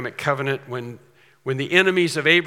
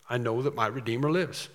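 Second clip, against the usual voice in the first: authoritative; 2 semitones lower, 5 dB quieter than usual. Retold or imitated. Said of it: "speaking authoritatively".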